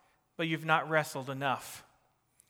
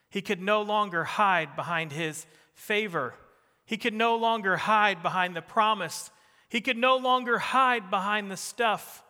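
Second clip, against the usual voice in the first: each line climbs higher and louder on no; building refrain; 3 semitones higher, 3 dB louder than usual. Real, not acted. Preacher to church, stepping each refrain up louder. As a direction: stress no and push it up every time.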